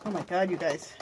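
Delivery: stuffy, sniffly voice; sniffling. Real, not acted. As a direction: talk through a runny nose. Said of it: "So sorry about all my sniffling".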